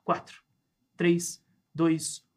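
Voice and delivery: calm, measured hypnosis countdown. Acted. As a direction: lull them under with each number. Bringing subject out of hypnosis. (voz lenta de hipnotizador)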